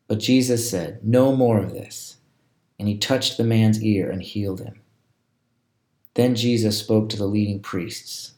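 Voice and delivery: expressive Bible story narration; storyteller voicing the Gospel scene; scripture reading. A narrator's reading. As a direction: read the passage aloud with lively emphasis. Reads scripture aloud.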